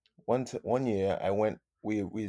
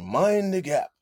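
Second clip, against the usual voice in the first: much higher, hammed-up announcement of "Mind the gap"; mock tube announcer; 9 semitones higher, slower than usual. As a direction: imitate the London Underground platform announcement. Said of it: "they're telling you".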